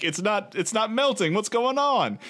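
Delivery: baffled disbelief. Acted. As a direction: act puzzled, pitch lifted. Puzzled person at unmelting ice, acted.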